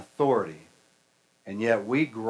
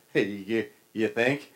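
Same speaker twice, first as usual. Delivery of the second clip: West Texas drawl. Retold or imitated. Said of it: "Chris kinda talked like this".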